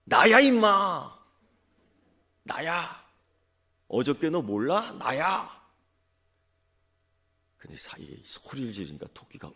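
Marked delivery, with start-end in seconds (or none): 0.0-5.5 much higher and louder, the first word stretched slow; loud yell. Acted. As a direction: bellow it to scare the tiger. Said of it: "큰 소리로 이렇게 외치는 거예요". (토끼가 호랑이에게 외치는 고함)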